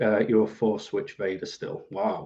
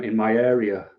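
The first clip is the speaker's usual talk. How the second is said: normal talking voice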